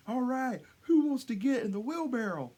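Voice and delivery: high mock showman's shout; yelling to crowd. Performer seeking a wheelbarrow volunteer, high mock shout. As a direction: call it out big, imitating a performer. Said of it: "yelling out to the crowd".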